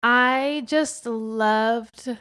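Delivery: choked up. Real, not acted. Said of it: "I have, like, a lump in my throat right now".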